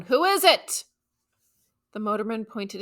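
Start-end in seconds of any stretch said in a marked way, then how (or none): 0.0-0.8 sharp, angry and higher; angry question. Acted. Policeman angrily asking the driver who it is. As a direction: demand it angrily, pitch up. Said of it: "in a very angry tone".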